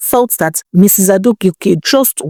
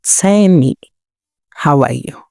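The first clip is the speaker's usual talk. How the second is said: wicked laugh; 3 semitones lower than usual. Acted. Missus Adegoke toys with the envious Tenny, wicked and amused. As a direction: savour her name like a cruel private joke. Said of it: "let out a very wicked laugh and said".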